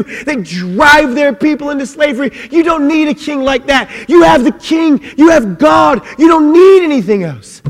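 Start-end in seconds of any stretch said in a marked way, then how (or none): 2.5-7.6 high, loud, pounding declaration; preacher shouting to the congregation; preaching shout. Acted. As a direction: hammer each line home.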